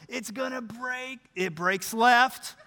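slow, drawn-out commentary; building suspense. Acted. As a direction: stretch it out as the ball turns. Suspense building as putt breaks.

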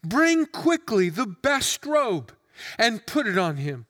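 measured, formal Bible reading; solemn public reading of a parable; scripture reading. Acted. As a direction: read the passage aloud with weight. Scripture read before the sermon.

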